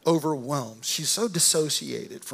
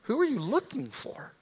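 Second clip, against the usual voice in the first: soft, higher, tender questioning; gentle questioning; 7 semitones higher, 5 dB quieter than usual. Acted. Jesus speaking to the crying woman outside the tomb, gentle. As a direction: ask her gently, lifting the pitch and easing off. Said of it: "then he speaks to her. He says".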